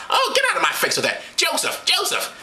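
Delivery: high falsetto, calling for her husband; high comic nagging; exasperated Mary. Acted. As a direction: shrug them off in a high woman's voice.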